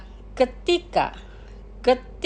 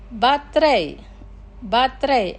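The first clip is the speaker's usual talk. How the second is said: careful, measured vocabulary model; slow pronunciation. Shown as a demonstration. Teacher models words for listeners to repeat, slowly. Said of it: "Los pronunciaré lentamente".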